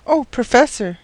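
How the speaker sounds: high, lightly urgent gasp. A narrator's reading. Maid bursting into the professor's room, gasped out. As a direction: call out with a touch of breathless urgency. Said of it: "she gasped out".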